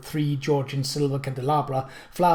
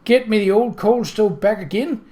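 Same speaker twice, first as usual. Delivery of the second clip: crying out; 6 semitones higher, 6 dB louder than usual. A narrator's reading. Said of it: "she cried".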